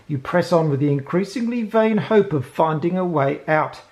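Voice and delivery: dramatic scene-setting read; story narration. Acted. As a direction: read it like an adventure book. Reads the scenario intro.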